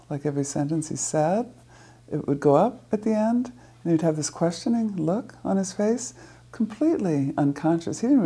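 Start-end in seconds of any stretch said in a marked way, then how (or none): 0.1-6.1 every phrase ends on a rising question tune; uptalk demo. Shown as a demonstration. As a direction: end each phrase going up, as if unsure. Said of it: "who talked like this".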